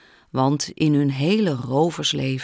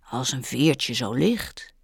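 amazed; 2 semitones lower, slower than usual. Acted. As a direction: marvel at how light she is. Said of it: "zei hij verbaasd".

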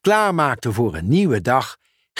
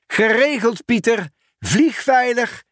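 calling out; 10 semitones higher than usual. Acted. Ben calls to Pieter as the helicopter lifts off, high. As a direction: wish him a safe flight. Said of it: "riep Ben".

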